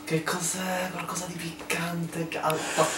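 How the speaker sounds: quiet, reacting to burning spice; mouth burning from spicy food. Real, not acted. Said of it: "mi lacrimavano".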